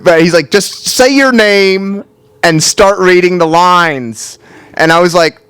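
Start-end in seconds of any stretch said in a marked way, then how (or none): 0.5-4.4 slow, higher, over-patient spelling-it-out; mildly imitated fed-up casting guy; exasperated instructions. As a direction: talk slowly like to an idiot. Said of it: "he was at his wit's end".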